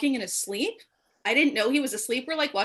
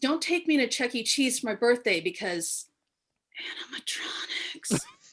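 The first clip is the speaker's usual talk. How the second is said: put-on child voice, whispering. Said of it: "Why do you whisper animatronics?".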